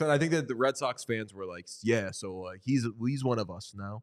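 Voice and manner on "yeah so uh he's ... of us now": lightly put-on Boston accent. Imitating Red Sox fans accepting Bernie Williams, light Boston accent. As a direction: imitate a Boston fan, low-key. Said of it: "It's my Boston accent impression".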